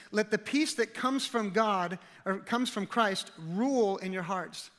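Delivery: slow, deliberate verse reading; scripture reading. Acted. Pastor reading Colossians to congregation, slow and weighty. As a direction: lay out each phrase of the verse. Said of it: "It says".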